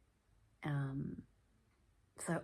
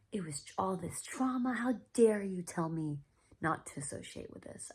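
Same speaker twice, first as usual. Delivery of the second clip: mildly indignant retold retort, higher at first then easing off; angry protest; 4 semitones higher, 4 dB louder than usual. Patient rebuking mentor over the advice, mildly angry. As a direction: reenact a telling-off that settles down. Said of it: "I was so angry".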